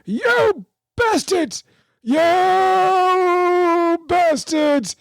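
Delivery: hammed-up high, slow strained old man curse; old man cursing the fish. Hundred-year-old Frank fighting a fish under his breath, mock strained old man curse. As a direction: drag it out like a frail old man straining at the rod. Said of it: "you can hear him going".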